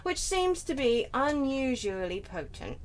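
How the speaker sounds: lightly voiced depressed vampire; a hint of emo brooding as you read; Trevor. Player reading journal as Trevor, lightly voiced impression. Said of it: "depressed person accent".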